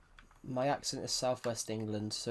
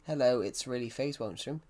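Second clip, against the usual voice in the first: Irish accent. Shown as a demonstration. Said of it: "That's really good".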